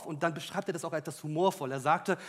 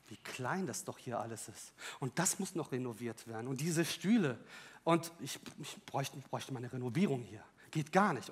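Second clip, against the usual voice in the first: grumbling; 7 semitones lower, 8 dB quieter than usual. Retold or imitated. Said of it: "schaute ich mir mein Wohnzimmer an und sagte".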